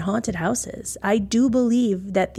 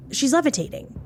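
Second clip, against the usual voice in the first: pitched up high in disbelief; shocked gasp; 7 semitones higher, faster than usual. Retold or imitated. Husband seeing his wife float, a high shocked blurt. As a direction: blurt it out, stunned, voice jumping high. George sees Kathy floating.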